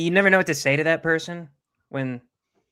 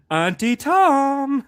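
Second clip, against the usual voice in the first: laughing; 10 semitones higher, 7 dB louder, much slower than usual. Real, not acted. Joking twist on Uncle Tom.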